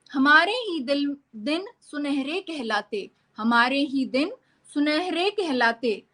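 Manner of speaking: lilting, measured verse with swooping pitch; poem recitation. Acted. Poet reciting a children's poem to an online gathering, lilting recitation. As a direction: recite in a singsong, pausing between phrases.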